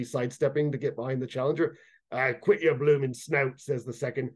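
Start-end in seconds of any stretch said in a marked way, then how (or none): 2.1-3.6 slow, rough creature rebuke; gruff kobold. A narrator's reading. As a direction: growl at the fool. Second kobold scolds.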